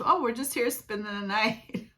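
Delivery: lightly acted innocent houseguest; fake-casual, nothing to see here; playing innocent. Friend sneaking downstairs, lightly acting innocent. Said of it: "really playing the whole role of".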